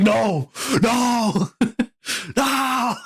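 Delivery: high, laughing mock wail of no; laughing mock cry. Picturing a surprise first shift, high laughing mock cry. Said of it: "I'll be like".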